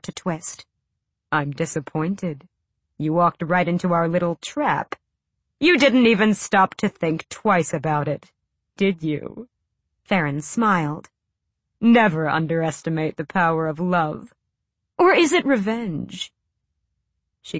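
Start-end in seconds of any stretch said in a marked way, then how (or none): 1.3-9.5 a hint of a gloating villain; Farron, smug villain. Farron voiced in story. 11.8-16.3 a hint of a gloating villain; Farron, smug villain. Farron voiced in story.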